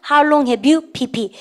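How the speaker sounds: slow classroom repeat-after-me; very slow drill reading. Shown as a demonstration. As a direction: say it slowly so students can follow. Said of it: "입에서 뭐가 터집니까".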